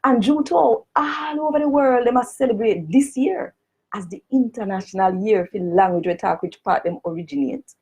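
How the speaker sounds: formal petition read in broad Jamaican patois. Shown as a demonstration. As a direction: read it out in full Jamaican Creole. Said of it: "I'm gonna read it first in a the Jamaican language".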